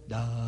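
drawn-out, low dumbfounded "daa"; speechless mouth noise. Retold or imitated. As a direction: imitate a jaw going slack, softly. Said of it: "Y pues mi boca hizo". (sonido bobo de boca abierta)

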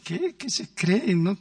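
mock scornful teen retort; a light hint of dismissive children; disdainful kids. Preacher imitating children answering their mother with disdain. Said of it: "con desdén los hijos la miran y dicen".

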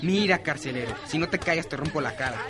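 low threat. Acted. Bully threatens to punch him.

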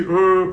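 a short loud imitated wail; mock baby cry. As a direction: imitate a baby's cry, briefly. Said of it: "que lloraba así". (imitación de llanto de bebé, breve y fuerte)

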